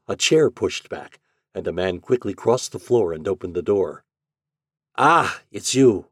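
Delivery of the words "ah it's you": slow, higher greeting, louder; lightly voiced son greeting his father; a drawn-out, raised greeting; son's voice. A narrator's reading. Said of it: "he heard in the son's voice".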